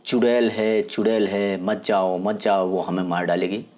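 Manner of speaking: mock sleep-talking on one even note; droning, run-on imitation of dream muttering; imitated sleep babble. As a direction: lightly imitate someone babbling in their sleep. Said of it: "तू नींद में क्या बड़बड़ा रही थी".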